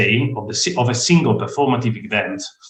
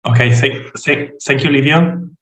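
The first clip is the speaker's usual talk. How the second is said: hoarse, rough goblin voice; talking through a croaky throat; 2 semitones higher than usual. Real, not acted. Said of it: "sorry for my goblin voice".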